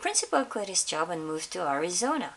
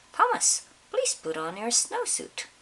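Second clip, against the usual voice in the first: much higher on the name, sing-song teacher; teacher's call; 5 semitones higher than usual. Acted. Teacher telling Thomas to put the snowsuit on, high call.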